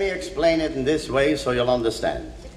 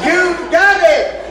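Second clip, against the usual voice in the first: even higher, drawn-out cheer; elated; 13 semitones higher, 4 dB louder, slower than usual. Acted. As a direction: stretch the cheer slowly. Cheer repeated, slower.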